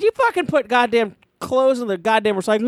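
mild retold telling-off; retold yelling. Retelling confronting the roommate, mildly angry. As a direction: scold him, pitch up, without really shouting. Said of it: "started yelling at Guido".

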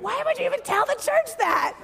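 high, laughing mock question; laughing disbelief. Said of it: "And I'm like".

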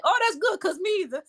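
imitating. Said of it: "And he's like".

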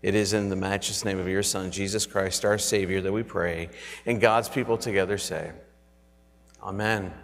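reverent, earnest prayer voice. Acted. Pastoral prayer.

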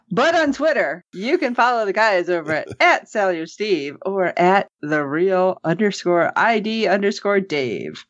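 crazy captain's voice. Acted. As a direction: switch to a wild captain. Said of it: "then my crazy captain's voice".

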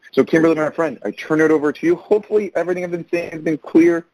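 muffled, talking behind a face mask; through a face mask. Real, not acted. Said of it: "Speaking through a face mask".

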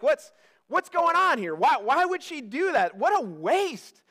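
mock-indignant onlookers, pitch jumping up; indignant complaint, slowing on the last words. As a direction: act out a scandalized bystander. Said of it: "They are indignant".

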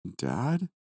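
confused. A narrator's reading. Just-woken son puzzled to see his dad, confused. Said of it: "in a confused voice".

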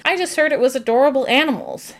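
lightly voiced cartoon character; Tina. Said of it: "Tina chimes in".

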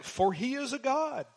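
lightly voiced Elijah's mock praise; sarcastic mock. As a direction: feign belief to ridicule them. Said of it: "a deceptive statement".

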